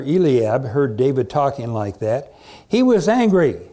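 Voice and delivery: animated, emphatic Bible reading; dramatic story narration. A narrator's reading. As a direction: tell the story to a congregation with relish. Reads Bible story aloud.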